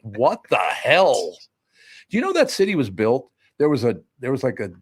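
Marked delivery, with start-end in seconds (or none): 0.0-1.4 slow baffled. Retold or imitated. Baffled reaction in a retold scene.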